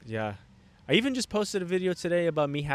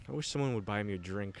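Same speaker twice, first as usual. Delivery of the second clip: softer, lower, begging with fake sadness; mock sad homeless guy; 5 semitones lower, 8 dB quieter than usual. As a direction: imitate a man playing pitiful for a drink. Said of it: "acting like a really sad guy".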